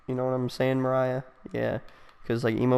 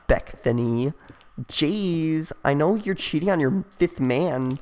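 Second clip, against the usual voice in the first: put-on gossiping girl voice. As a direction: chatter like a catty teen girl spreading rumours. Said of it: "like, on the phone with friends".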